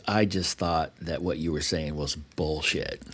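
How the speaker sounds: slow, low, unimpressed drawl; skeptical dismissal. Retold or imitated. Retelling a tech's doubts about the speaker, slow dismissive scorn. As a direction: imitate a doubter, quiet and dragged out.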